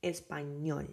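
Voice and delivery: español with the weight on the final ñol; stress on ÑOL. Shown as a demonstration. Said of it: "in that word is in ñol".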